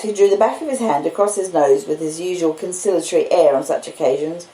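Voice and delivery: plain reading voice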